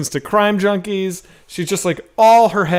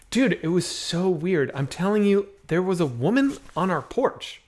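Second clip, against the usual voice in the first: mock spooked hush; 3 semitones higher, 6 dB quieter than usual. Acted spooked report to scare wife.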